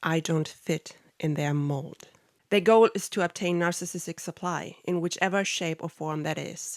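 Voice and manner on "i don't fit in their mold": put-on low, dead-level, emotionless monotone. Quote what your ex once said to you, imitating his psychopathic, monotonous voice. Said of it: "in his psychopathic, monotonous voice".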